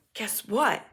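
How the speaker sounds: conspiratorial whisper. Retold or imitated. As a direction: hush it like passing on a secret. Friend leans in with gossip.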